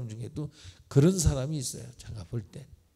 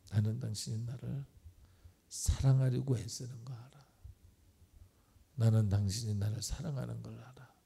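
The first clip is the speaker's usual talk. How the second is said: gentle demo line; 3 dB quieter than usual. Shown as a demonstration. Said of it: "이렇게 한번 해봤으면 좋겠어요".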